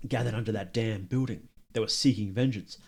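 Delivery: measured story narration; reading game text. Acted. Player reading a nobleman's account aloud, measured narration. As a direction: read it out like an old account.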